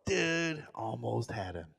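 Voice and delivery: sly aside. Retold or imitated. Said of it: "I go".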